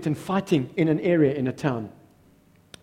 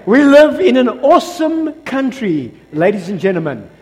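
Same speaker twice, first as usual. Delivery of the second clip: said again with more force; 7 semitones higher, 9 dB louder than usual. Shown as a demonstration. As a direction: deliver it properly this time. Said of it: "Hold on, let me say".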